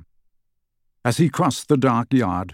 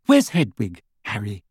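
coaxingly; 2 semitones lower than usual. A narrator's reading. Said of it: "she said coaxingly".

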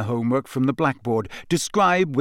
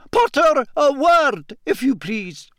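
higher and louder, over a noisy room; calling out; 12 semitones higher, 4 dB louder, slower than usual. A narrator's reading. McGonagall calls Potter over the noisy classroom, loud call. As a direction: call the boy back over the bell. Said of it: "called above the noise".

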